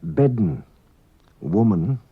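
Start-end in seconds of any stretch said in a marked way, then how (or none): 0.0-0.6 "Bedden" with a D sounded just before the N. Shown as a demonstration. Teacher gives an example of unwritten D, D before N. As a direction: put a D into "Bedden", released straight into N. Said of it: "An unwritten D is pronounced before N".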